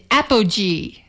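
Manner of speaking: "apogee" with a soft G, like "appo-jee"; soft-G pronunciation. Shown as a demonstration. Host showing how we say it, "apogee" with a soft G. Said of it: "Just the way I said it".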